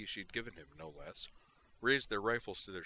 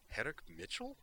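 high, stunned question; surprised; 9 semitones higher than usual. Acted. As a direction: gasp out the name in shock. Shocked recognition.

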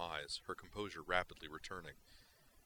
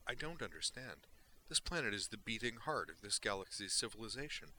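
curious Vulcan; 4 semitones higher than usual. Acted. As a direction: ask with cool, exact curiosity. Valeris questions Duke's logic.

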